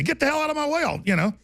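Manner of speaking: defiant, high mock challenge; retelling a dare to fight; retold challenge. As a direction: square up and dare them. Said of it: "I'd say".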